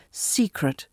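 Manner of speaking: secret with SE stressed, falling away; weight the SE of secret; stress on first syllable. Shown as a demonstration. Teacher sums up the tip, secret stressed on the first syllable. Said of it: "the first syllable".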